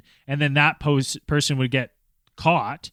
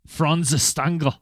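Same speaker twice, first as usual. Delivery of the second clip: put-on German accent; 2 semitones higher than usual. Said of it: "that's here German now".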